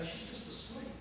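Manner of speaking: Jesus telling mourners she sleeps, hushed. Retold or imitated. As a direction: say it softly. Jesus says softly.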